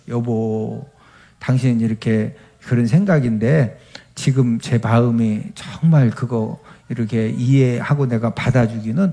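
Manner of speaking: understated calm wife asking to pray first. Retold or imitated. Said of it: "차분하게".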